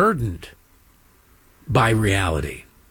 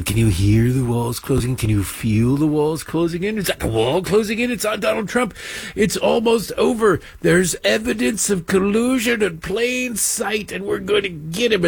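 mock breathless pundits; 4 semitones higher than usual. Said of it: "MSNBC saw ratings dips after years of going".

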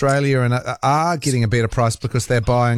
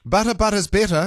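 echoing an ad slogan; 8 semitones higher than usual. Retold or imitated. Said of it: "That was a great ad".

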